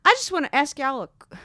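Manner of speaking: high, loud attempt at a Southern dad; imitated dad, missing the low register; dad impression pitched too high. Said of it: "Go lower, Jill".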